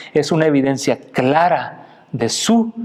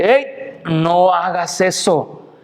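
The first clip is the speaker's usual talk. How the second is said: acted sharp interjection; 2 semitones higher, much slower than usual. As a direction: cut him off, then slow down. Ángel detiene a Juan. (llamada de alto, imitando al ángel)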